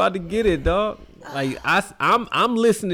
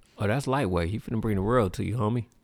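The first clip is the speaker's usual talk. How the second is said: put-on cool, swaggering delivery; 8 semitones lower, 5 dB quieter than usual. Answering another speaker's genuine moment, trying to sound cool. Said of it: "Look at him trying to be cool right now".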